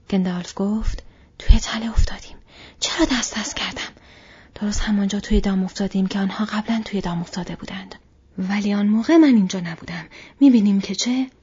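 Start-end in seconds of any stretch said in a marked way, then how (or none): 1.4-11.3 louder, tense and frustrated; urgent, self-reproaching wizard. Acted. Gandalf admits the fellowship is trapped, loud and frustrated. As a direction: scold yourself for the delay.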